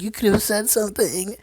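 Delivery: high-pitched imitated tearful complaint; mock crying. Crying niece blaming her aunt, mock tearful. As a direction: whine it like a hammed-up weepy girl. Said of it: "she was all sad and crying".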